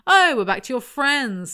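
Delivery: high, loud, wounded outburst; hurt, angry roar. A narrator's reading. Matt throws her friends back at Ava, angry roar. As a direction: roar it back, stung and fed up. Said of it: "says Matt in a hurt, angry roar".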